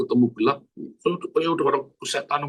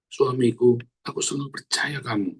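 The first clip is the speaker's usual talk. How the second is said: tenderly, as a model for wives; sincere model line. Shown as a demonstration. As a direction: say it gently to your husband. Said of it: "Belajar, saudara ya".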